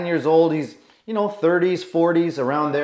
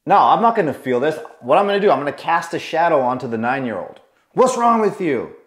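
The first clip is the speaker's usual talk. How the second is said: judgmental angry dad; faster than usual. Retold or imitated. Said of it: "Judgmental, angry".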